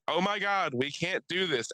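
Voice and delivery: a mock-innocent girl, hammed up; mock girl protest. Mocking the girl who cornered the kid, fake shocked.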